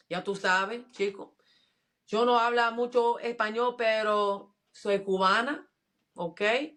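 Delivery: playful Miami Cuban accent. Shown as a demonstration. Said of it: "I can do Cuban accent".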